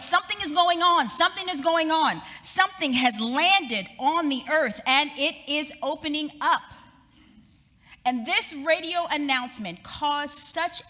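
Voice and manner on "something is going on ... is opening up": higher, louder alarmed yell; yelling reporter. Retold or imitated. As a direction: shout the news in alarm. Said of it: "And he yelled".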